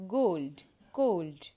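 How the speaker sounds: "gold" and "cold" with a rounded closed O; closed O sound. Shown as a demonstration. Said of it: "closed O sound like O".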